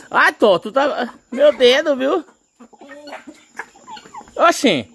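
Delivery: high, loud cry of pain; pained yelp. Real, not acted. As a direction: yelp at the pinch. Bird pinching his finger again.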